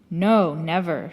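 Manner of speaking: "No, never" said firmly, with weight on both words; emphatic. A narrator's reading. Disciple answers whether she could leave him, "No, never" said emphatically. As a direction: put firm emphasis on "No, never". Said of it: "she said with emphasis".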